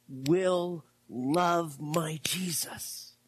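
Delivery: slow breathy whisper of devotion; whispered vow. Retold or imitated. Preacher voicing the wife whispering her vow to Jesus. Wife's prayer after bad news.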